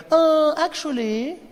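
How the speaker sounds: well-actually like a smug troll; hammed-up pedant voice; mock know-it-all commenter. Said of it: "the comment section was like".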